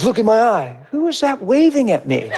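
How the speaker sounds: high, laughing "who is that waving"; amused and high-pitched, laughing. Retold or imitated. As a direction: giggle through it, high. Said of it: "I'm like".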